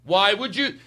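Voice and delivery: hammed-up annoyed complaint; mock exasperation. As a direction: act out losing patience with people. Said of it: "I started to get angry at people".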